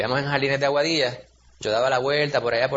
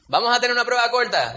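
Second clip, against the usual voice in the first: teacher announcing a quiz; 7 semitones higher, 3 dB louder than usual. Retold or imitated.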